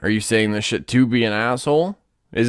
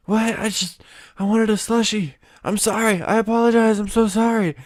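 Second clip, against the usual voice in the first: flustered apology; 8 semitones higher than usual. Retold or imitated. Acting out the panicked apologizer.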